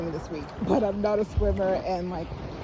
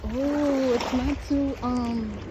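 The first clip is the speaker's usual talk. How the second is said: higher startled gasp into the sea; surprised by the water; 5 semitones higher, slower than usual. Real, not acted. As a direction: caught off guard by the water. Stepping into cold water.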